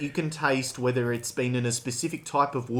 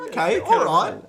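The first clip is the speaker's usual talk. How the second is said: mock eager taster; 5 semitones higher, 3 dB louder than usual. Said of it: "And, you know".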